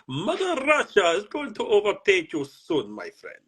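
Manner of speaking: put-on a jokey Russian threat to a friend, heavy accent; dodgy Russian accent. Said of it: "We don't, we don't do dodgy accents".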